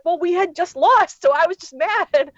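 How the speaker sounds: high, slow, sheepish excuse in a put-on voice; imitating sheepish friend. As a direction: play the friend meekly owning up to his blunder.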